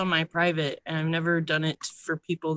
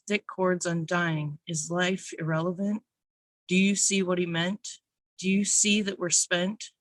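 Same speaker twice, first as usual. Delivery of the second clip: measured, earnest spoken word delivery; spoken word poem. Acted. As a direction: read your poem to a small room. Reads second poem.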